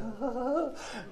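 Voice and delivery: high, soft gasping whimper; acted shuddering breaths; mock frightened whimper. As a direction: imitate a kid dreading what's coming. Boy dreading spanking as truck arrives.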